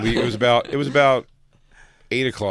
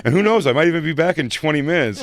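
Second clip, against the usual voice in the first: high, louder mock-defensive teen; over-explain it in a higher, whiny teen voice; defensive over-explaining Max; 6 semitones higher, 4 dB louder than usual. Mimicking the boy protesting he's just going to sleep. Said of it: "he starts doing, like, the".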